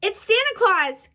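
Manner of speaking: high, excited little-bear cry; high-pitched exclamation. A narrator's reading. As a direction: call it out like an astonished cub. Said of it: "cried Baby Bear".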